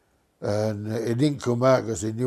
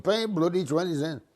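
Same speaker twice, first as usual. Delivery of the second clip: mild mock shout; 6 semitones higher than usual. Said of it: "they're all shouting".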